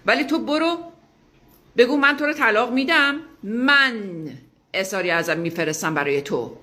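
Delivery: rising loud insistence to claim the divorce; emphatic push. Real, not acted. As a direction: drive it home with force. Urging her to divorce first.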